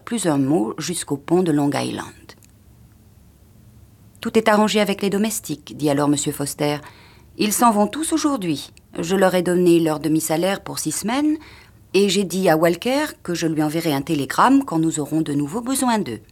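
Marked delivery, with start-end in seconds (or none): 4.2-16.2 put-on a touch of a curt old husband; brisk husband. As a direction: rattle off the plans briskly. Husband explains arrangements.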